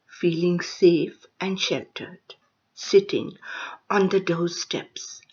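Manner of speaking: lifted openings, then falling phrase ends; poetry recitation. Acted. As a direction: recite in measured fragments with pauses between images. Recites her second poem.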